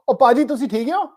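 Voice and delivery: Punjabi hotel greeting, lightly voiced; punjabi accent. Shown as a demonstration. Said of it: "and I'll go".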